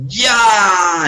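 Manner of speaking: hoher, lauter Ruf; Startruf. Acted. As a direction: ruf laut das Startsignal. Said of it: "y gritó".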